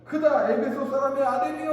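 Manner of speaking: high, loud mock crowd cry; imitated crowd shout. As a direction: call it out as if joining the mob. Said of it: "라고 외치고 있는데".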